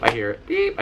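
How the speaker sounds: high beep imitation. In the hearing booth, mimicking the test tone as a high beep.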